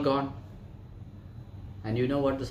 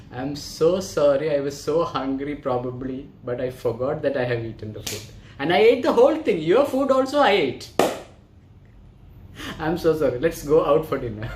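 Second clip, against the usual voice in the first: louder, rushing a sheepish sorry; sheepish apology; 3 semitones higher, 6 dB louder than usual. Acted. Scientist apologises to the hungry friend, louder and sheepish. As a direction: gush out the apology, half laughing.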